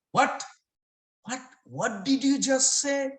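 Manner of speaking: high-pitched, stunned questioning; shocked disbelief. Acted. Mother hears her son deny her, shocked.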